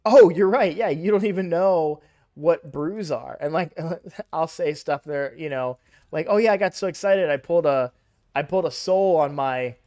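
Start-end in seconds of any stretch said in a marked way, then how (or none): 0.1-3.4 mild louder burst of realisation; oh-of-course, starting loud; retold realisation. Player catching himself with a newbie friend, mock realisation. 6.3-9.8 louder, quick mock-excited chatter; retold excited bragging. Veteran telling a new friend about a pull, excited.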